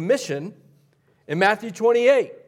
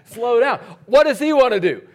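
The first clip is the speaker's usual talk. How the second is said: raised, higher calling voice; mock dad calling out; 6 semitones higher, 6 dB louder than usual. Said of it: "And I'm like".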